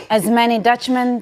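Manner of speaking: words in a light Israeli accent. Shown as a demonstration. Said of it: "I said it with an Israeli accent".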